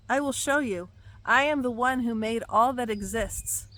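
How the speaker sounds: commanding prophetic proclamation; thundering prophecy. Acted. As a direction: declare it as the Lord's voice. Reads God's words aloud.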